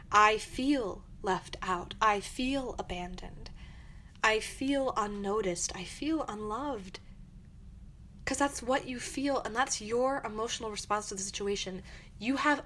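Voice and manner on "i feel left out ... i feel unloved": calm honest I statements. Shown as a demonstration. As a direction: say each feeling gently and slowly. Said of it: "and say".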